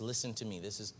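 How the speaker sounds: fervent preached invitation; preaching the Lord's call. Retold or imitated. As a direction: call out with growing force. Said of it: "He says".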